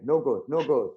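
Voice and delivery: punchy mock German accent. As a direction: refuse firmly in a put-on German accent. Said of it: "This is my German accent again".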